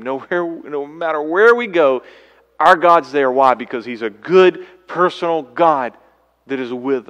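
loud, high preaching swell; preaching at full force. Real, not acted. Preacher rousing the congregation, loud and soaring. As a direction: lift them with the promise.

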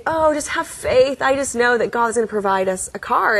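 a gentle touch of mom's calm certainty; hint of a faithful mother. Mother voiced in story.

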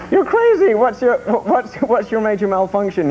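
mock yell, voice jumping high; hammed-up outraged cop, starting high then easing down; retold exasperated cop. Host retells cop seeing penguins in sunshades, mock exasperation. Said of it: "He goes".

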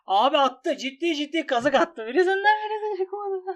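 loud, high outburst at losing the bet; frustrated shout. Real, not acted. Gambler yelling at the site after losing. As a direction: yell at the screen as the bet fails.

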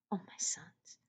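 faint breathy whisper of a sick mother. Acted. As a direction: whisper it weakly, barely voiced. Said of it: "she whispered".

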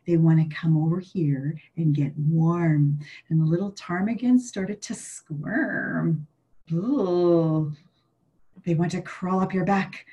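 grandma telling a spooky tale; spooky storyteller. Acted. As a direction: creep the kids out with a scary story. Grandma tells creepy tale.

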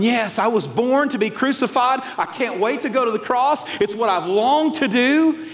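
mock eagerness. Imagined Jesus welcomes the cross, mock eagerness. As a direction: overplay an eagerness nobody believes. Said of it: "I don't see Jesus in the garden going".

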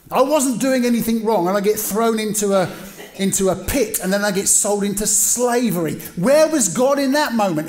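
preacher acting out Joseph's grievance, rising in pitch and volume; imagined rant. Joseph imagined railing against God.

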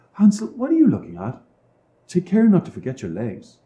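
calling father. A narrator's reading. Father calls to son.

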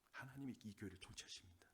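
breathy whisper, the declaration sunk to a hush. Shown as a demonstration. Pastor whispering the truth to the congregation, hushed. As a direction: let it fall to a bare whisper.

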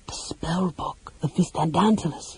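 slow, awestruck whisper; breathed in amazement. Acted. Mage beholds the legendary spell book, breathed in awe. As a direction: breathe it out in wonder, barely audible. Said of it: "he breathed".

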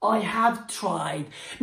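slow, with a lean on have; slow teaching read. Shown as a demonstration. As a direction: model it slowly for students. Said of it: "مين بيعرف يقول لي". (نطق بطيء مع ضغط على have)

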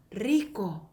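"리코" with a trilled first r; crisp Spanish trill on "리코"; rolled r. Shown as a demonstration. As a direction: roll the r opening "리코". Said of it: "굴리는 발음인데".

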